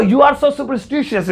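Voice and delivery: very slow, careful; slow demo. Shown as a demonstration. Teacher carefully modelling the sentence to students, slowly. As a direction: say each syllable carefully. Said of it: "इस तरीके से बोला".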